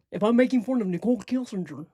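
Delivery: quick, put-on silly voice; mocking voice. Shown as a demonstration. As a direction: rattle it off in a made-up mocking voice. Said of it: "these are just my mocking voices".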